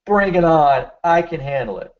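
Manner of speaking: "Bring" punched hard, "I" leaned on; stress on Bring and I. Shown as a demonstration. Coaching patients to say it with emphasis, "Bring" stressed. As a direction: hit the word "Bring" and then the "I". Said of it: "emphasize those words".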